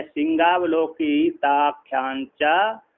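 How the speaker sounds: shloka recitation. Shown as a demonstration. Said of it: "एक इस-, श्लोक है इसमें".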